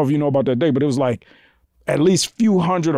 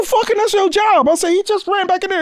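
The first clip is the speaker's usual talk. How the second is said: retold exasperation. Arguing with security over lost Bruce.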